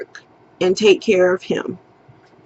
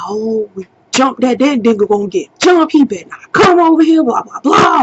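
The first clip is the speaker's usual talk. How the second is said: hyped-up crowd; 4 semitones higher, faster than usual. Retold or imitated. The crowd hyped about a fight.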